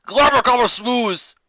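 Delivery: slow, loud mangled words; garbled gibberish. Acted. Twilight's hurried note coming out as loud gibberish. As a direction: blurt nonsense in a panic. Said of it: "her haste caused her to come out as".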